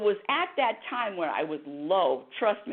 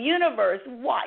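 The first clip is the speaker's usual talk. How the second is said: retold crying plea; 6 semitones higher than usual. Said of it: "I was crying, I was saying".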